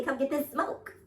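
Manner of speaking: tough New York swagger voice; New York accent. Acted. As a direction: quote it like a tough New Yorker. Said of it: "a man ... stands up and says".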